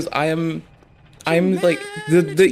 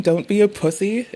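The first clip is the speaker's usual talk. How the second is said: quoting the clip guy; 4 semitones higher than usual. Retold or imitated. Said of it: "getting him saying".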